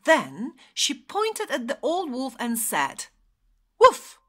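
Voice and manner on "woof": very high, loud one-word call; little lamb's cry. A narrator's reading. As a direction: pipe it up high as the little lamb. Little lamb pointing, calling wolf.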